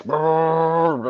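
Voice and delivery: rolled brrr; drawn-out imitated brrr; imitated brrr noise. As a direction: make a long brrr noise.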